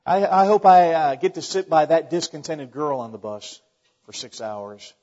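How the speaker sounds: hammed-up eager wish, fading to a flat drop; sarcastic longing; sarcastic mock hope. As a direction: play it as if it were a treat, then let it sink. Mock wish to sit by her.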